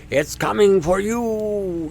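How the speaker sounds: slow, eerie boogeyman voice; mock the scary boogeyman; spooky mock voice. Mocking the fear narrative.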